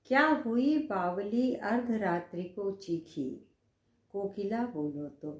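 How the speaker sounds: slow, fading verse reading; poem recitation. Acted. Recites poem line again. (धीमा, मंद होता कविता पाठ)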